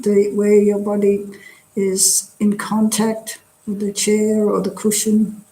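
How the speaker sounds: calm, measured meditation guidance with long pauses; guided meditation. Real, not acted. Teacher leading a drop-in group through a body scan, guided meditation. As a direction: guide them gently through relaxing, leaving space after each phrase.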